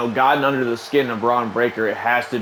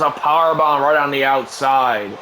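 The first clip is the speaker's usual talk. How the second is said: shouted call. Acted. Shout as move lands.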